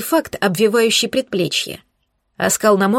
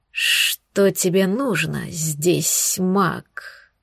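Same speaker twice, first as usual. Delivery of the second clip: hissing snake; 3 semitones lower, much slower than usual. Acted. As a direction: hiss it out slowly like a snake. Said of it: "прошипела огромная змея".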